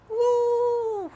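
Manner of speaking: high, loud whoops of joy; triumphant cheer. Real, not acted. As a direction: celebrate like you just won. Cheering another fix.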